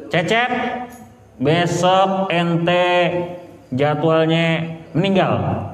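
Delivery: sung-out, drawn-out angel announcing death; a slow, half-sung announcement from the angel of death; angel's announcement. Acted. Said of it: "kata malaikat Israel". (pengumuman malaikat yang dilagukan pelan)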